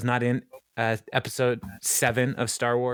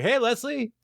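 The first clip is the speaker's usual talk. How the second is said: put-on old man voice; 10 semitones higher than usual. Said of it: "He's like".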